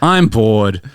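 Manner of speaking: low, listless complaint after a sigh; sigh, then moan it low; acted boredom. Jim to his friends on the couch, bored.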